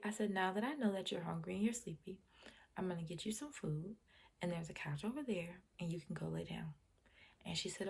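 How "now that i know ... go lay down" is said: put-on soft, soothing voice to a tired child; calm reassurance. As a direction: gently settle a child down. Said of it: "I spoke to her calmly".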